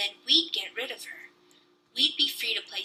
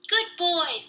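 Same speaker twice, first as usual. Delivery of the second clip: put-on toddler echo; 8 semitones higher than usual. A narrator's reading. Toddler echoes his mother.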